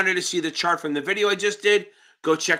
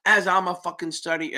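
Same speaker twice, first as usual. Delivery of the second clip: stuttering. Real, not acted. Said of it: "I'm stuttering my ass off".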